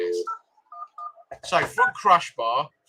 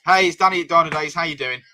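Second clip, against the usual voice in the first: lightly put-on posh phone voice; polite posh caller, barely changed; posh telephone voice; 4 dB louder than usual. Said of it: "my posh telephone voice".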